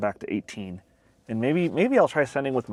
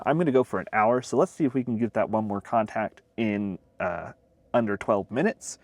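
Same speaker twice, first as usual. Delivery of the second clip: talking around a pen held in teeth; pen in mouth; 3 semitones lower than usual. Real, not acted. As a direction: speak with a pen between your lips. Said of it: "I have my pen in my mouth".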